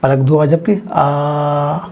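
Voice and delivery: measured, counting out the blinks; slow demo. Shown as a demonstration. Teacher timing the long vowel "आ" against two blinks. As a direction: say "पलक दो बार झपकी आ" slowly, with "आ" held two beats. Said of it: "बड़ा आ".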